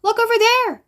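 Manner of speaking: high, urgent storybook cry; reader's controlled scream; excited scream. A narrator's reading. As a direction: call out in high-pitched alarm and excitement. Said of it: "she screamed".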